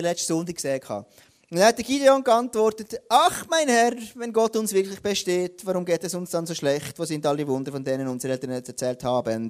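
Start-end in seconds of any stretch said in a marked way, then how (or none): 3.1-9.5 mildly whining. Acted. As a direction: lightly act out a moaning complainer, trailing downward. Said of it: "er jammert einfach".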